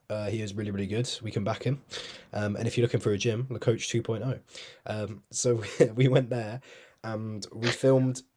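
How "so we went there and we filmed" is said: slow, drawn-out promo delivery; promotion voice. Real, not acted. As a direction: stretch it out like you're plugging something. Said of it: "Why do you do that voice?".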